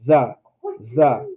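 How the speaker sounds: "Za" said short and light; "za" with a light short ah, no added ha. Shown as a demonstration. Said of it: "It's just an ah sound".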